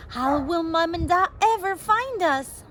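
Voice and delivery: put-on a child close to tears; understated sob; mild sobbing. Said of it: "Eilish sobbed again".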